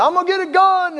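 high-pitched mock yell; retold yell. Wife threatening her husband over the phone, high mock yell. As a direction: imitate her yelling, pitch thrown way up. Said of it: "he, she's yelling and".

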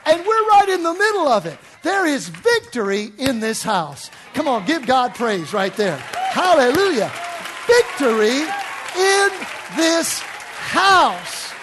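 loud, high, ringing proclamation; full-force preaching. Acted. Preacher whips up the congregation, loud and high. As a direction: preach it to the rafters.

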